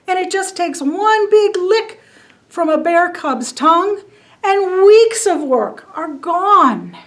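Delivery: a chubby fuzzy bee chattering up at a god; little bee voice. Acted. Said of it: "this little bitty creature".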